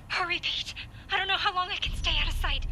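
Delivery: panicked. Acted. Hiding, panicked.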